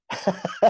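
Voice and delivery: a quick breathy laugh at himself; short laugh. Real, not acted. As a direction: laugh it off lightly. Laughs at own story.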